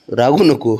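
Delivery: firm soothing plea. Real, not acted. Soothing a sulking child.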